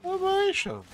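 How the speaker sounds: shouting. Real, not acted. Shouting in game.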